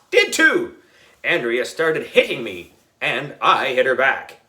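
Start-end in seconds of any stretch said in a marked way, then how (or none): 0.1-0.8 mock retort. A narrator's reading. Kids quarrelling in class.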